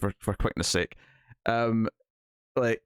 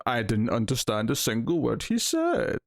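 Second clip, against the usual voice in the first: snobby mocking. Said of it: "they just start doing the".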